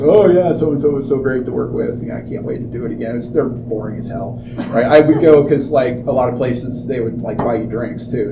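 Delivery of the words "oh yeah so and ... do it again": imitating canned celebrity praise; put-on enthusiasm, trailing into a quick routine line; mock press-junket gush. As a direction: gush by rote, like an actor at a junket. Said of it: "everybody goes".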